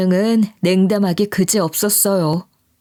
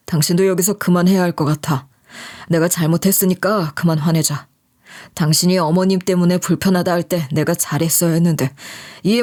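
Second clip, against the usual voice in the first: lower, gently calming husband; soothing husband; 3 semitones lower than usual. Retold or imitated. Husband calming his upset wife, lower and gentle. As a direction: talk her down gently in a lower voice. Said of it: "저를 달래주면서".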